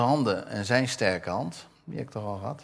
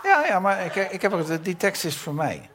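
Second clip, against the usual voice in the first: laughing; 11 semitones higher, 7 dB louder than usual. Real, not acted. Laughing about his own nose text.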